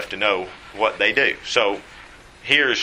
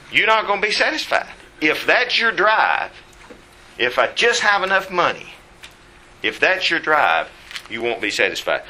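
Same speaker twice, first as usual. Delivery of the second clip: father's warning; 6 semitones higher than usual. Retold or imitated.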